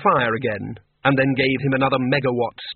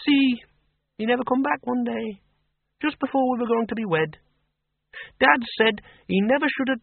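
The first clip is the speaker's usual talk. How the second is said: put-on brisk old farm woman, pitched higher; a blunt countrywoman who knows more than she says; Miss Flitworth; 9 semitones higher than usual. A narrator's reading. Farm woman voiced in story.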